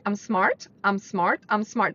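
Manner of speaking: empty repetition of "I'm smart", like a parrot; rote parroting. Shown as a demonstration. Coach showing listeners the wrong way, rote parroting. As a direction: rattle off "I'm smart" mechanically, no conviction. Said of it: "don't just say it parroting".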